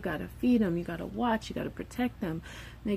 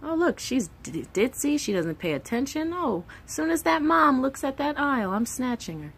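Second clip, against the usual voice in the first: a hint of a scheming kidnapper; lightly voiced kidnapper; 6 semitones higher than usual. Imagined kidnapper eyeing a child in the store, lightly scheming. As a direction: mutter it like a sly predator. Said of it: "Kidnapper would spot you and be like".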